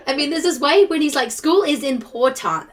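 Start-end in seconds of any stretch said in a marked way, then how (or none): 1.3-2.7 lightly imitated Southern accent, slowly drawn out. Host attempting the actor's Southern accent from the film, slow imitation. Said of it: "That is a ridiculous accent".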